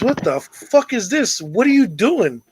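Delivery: lightly acted incredulous demand; baffled cowboy. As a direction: act out a cowboy's drawn-out disbelief. Cowboy finds naked Indian.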